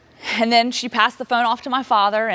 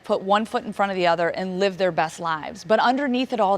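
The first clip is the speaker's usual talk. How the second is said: usual speaking voice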